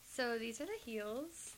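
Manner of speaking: hushed slow whisper; breathy unvoiced reveal. Real, not acted. Shows heels, whispered.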